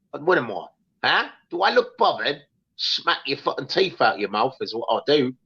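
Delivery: mock London geezer voice in Cockney; Cockney accent. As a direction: play a tough Cockney geezer threatening a stranger. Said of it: "With a Cockney accent".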